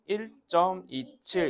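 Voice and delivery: "일 점 이칠" with every digit set apart; digit-by-digit reading. Shown as a demonstration. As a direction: demonstrate "일 점 이칠" as separate, measured words. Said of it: "이렇게 읽을".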